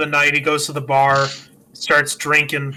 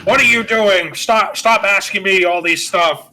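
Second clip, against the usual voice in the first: mildly raised, irritated mock scolding; mouthing off; 3 semitones higher, 3 dB louder than usual. George telling off his kids, mock irritation. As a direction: snap at them in mild mock anger. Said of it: "He starts mouthing off".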